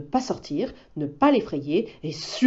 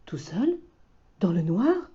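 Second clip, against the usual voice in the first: shivering wolf; 3 semitones higher than usual. Acted. Loup imagines the dark forest, a touch of fright. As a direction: let the shiver through. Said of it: "Loup en a le frisson".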